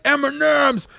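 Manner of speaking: put-on high, drawn-out greedy kid voice. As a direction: imitate a kid gobbling candy. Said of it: "just stuffing their face so fast".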